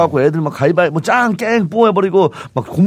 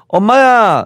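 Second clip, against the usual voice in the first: a startled 엄마야 a touch louder; startled exclamation; 6 semitones higher, 6 dB louder, much slower than usual. Retold or imitated. Friend showing the common startled cry, mock startled. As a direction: yelp it like something made you jump. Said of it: "엄마야라는 거 맞아".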